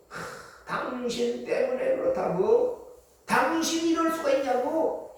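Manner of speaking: exasperated sigh, then slow, rising accusation; mock the grumblers laying blame; resentful blaming. People blame their leader for their plight, resentful blaming. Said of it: "이렇게 원망하는 소리가".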